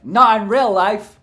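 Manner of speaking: "Not in real life!" shouted high and slow; mock outburst. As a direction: burst out with "real" punched.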